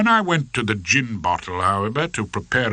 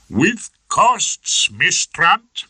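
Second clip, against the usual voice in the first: high, loud gloating jab; lightly voiced Archie, needling; cheeky parting shot; 10 semitones higher, 5 dB louder, much slower than usual. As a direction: defendant mocking the young barrister.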